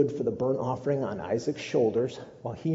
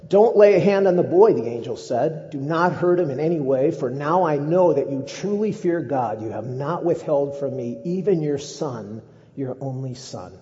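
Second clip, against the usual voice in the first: much louder and higher, urgent command; urgent angel; 3 semitones higher, 8 dB louder than usual. Acted. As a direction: call out to stop him at once.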